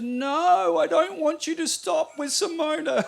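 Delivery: high, loud mock daughter's wail; daughter's protest. Father quoting his teenage daughter, high mock wail. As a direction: squeal it like a teenage girl in tears. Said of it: "She goes".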